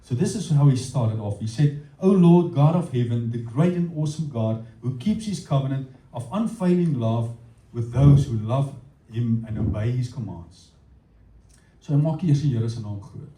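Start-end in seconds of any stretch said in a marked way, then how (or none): 2.0-10.7 prayerful reading. Acted.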